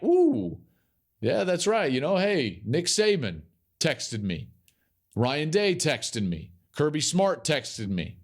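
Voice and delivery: lightly voiced recruit bragging, drawn-out names; impressed recruit. Imagined recruit boasting about texts.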